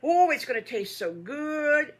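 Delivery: high, loud, thrilled piglets; excited young piglet exclaiming; surprised delight. A narrator's reading. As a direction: burst out with happy anticipation.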